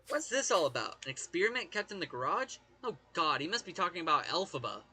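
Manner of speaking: lightly acted investigator, animated with swooping pitch; game investigator. Investigator questioning P G about the handbag, lightly acted. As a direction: play a curious, startled investigator. Reads a game character's dialogue aloud.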